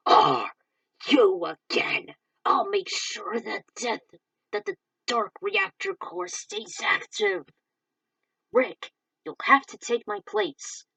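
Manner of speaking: slow, loud defiant declaration; loud confrontation. Acted. Falcon confronting Deathborn, slow and loud. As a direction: stand your ground against the villain.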